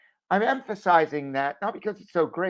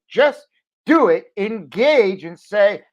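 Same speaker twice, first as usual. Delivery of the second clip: urgent push; 3 semitones higher, 6 dB louder, slower than usual. Real, not acted. Urging viewers to act.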